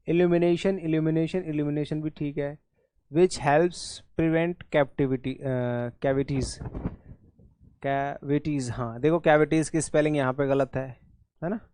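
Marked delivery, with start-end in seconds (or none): 3.1-8.7 slow reading. Real, not acted. Reads option sentence slowly.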